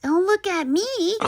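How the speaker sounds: high, mouth full of candy; chewing. Acted. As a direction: talk while chewing. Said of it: "chewed Stuart".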